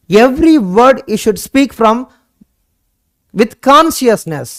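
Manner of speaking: very slow, spaced words; slow emphatic advice. Shown as a demonstration. Teacher urging students, slow and deliberate. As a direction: weigh every word for the class.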